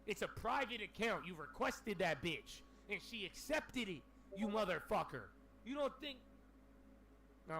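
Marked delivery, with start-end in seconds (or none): 0.1-6.2 retold scolding. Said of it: "I'm like".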